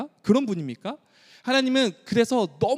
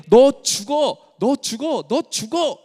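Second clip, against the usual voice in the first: higher, louder insistent warning; urgent warning; 6 semitones higher, 4 dB louder, slower than usual. Acted. God warning repeatedly, loud urgent insistence. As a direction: hammer the warning home. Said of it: "하나님은 이렇게".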